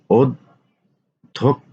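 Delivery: অধ্যক্ষ pulled out very slowly; drawn-out spelling. Shown as a demonstration. Teacher to students, slowly stretching অধ্যক্ষ. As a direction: stretch অধ্যক্ষ so each sound is heard. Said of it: "teacher stretches word for students".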